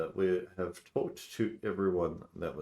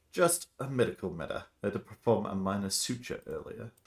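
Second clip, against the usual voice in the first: evasive doctor; 2 semitones higher than usual. Acted. Doctor explains the stain.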